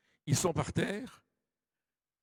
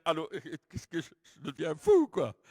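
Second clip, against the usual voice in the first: bewildered cry; 4 dB louder than usual. Retold or imitated. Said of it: "Tu dirais".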